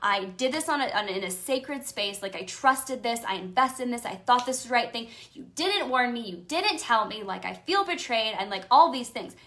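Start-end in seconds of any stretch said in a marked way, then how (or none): 0.0-8.3 loud angry venting, reliving it; loud, upset rant about feeling betrayed; retold angry rant. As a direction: rant at the angels, fired up. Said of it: "And I was like".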